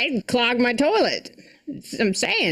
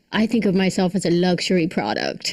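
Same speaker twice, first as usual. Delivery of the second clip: quoting Jennifer Lopez; 3 semitones lower than usual. Retold or imitated. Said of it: "she's quoted as saying".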